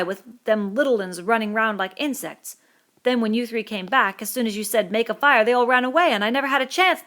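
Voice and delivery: put-on a wronged boy pleading his case; Piggy indignant. Piggy defending himself to Ralph, indignant.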